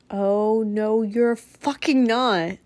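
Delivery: sudden firm defiance, drawn out; angry retort. Retold or imitated. Woman at her window warning the abusive man, firm and angry. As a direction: snap awake and refuse it. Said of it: "I was just like".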